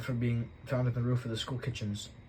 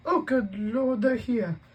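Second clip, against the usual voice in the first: high, loud flustered panic; aunt panicking as guests arrive; frantic; 13 semitones higher, 8 dB louder, much slower than usual. Acted. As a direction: fluster at the doorbell. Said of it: "said Aunt Petunia frantically".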